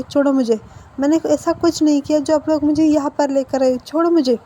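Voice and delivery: half-hearted shouting to be let go; mild mock yell. Tied-up captive to his captors, in a mild mock yell. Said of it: "तो वो चिल्ला रहा था, चीख रहा था कि".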